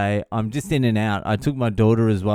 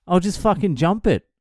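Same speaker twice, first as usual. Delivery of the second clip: high, swooping grudging agreement; retold exasperation, pitched way up; exasperated; 10 semitones higher, 3 dB louder than usual. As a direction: act out fed-up volunteering. Exasperated, volunteers to jump gate.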